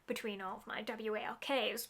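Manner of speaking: "W A L Ks" spelled letter by letter. Shown as a demonstration. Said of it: "I'm spelling out because that one's on the couch".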